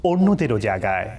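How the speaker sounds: measured, solemn verse reading; poem recitation. Acted. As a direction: recite the lines with deliberate pauses. Presenter opens by reciting verse.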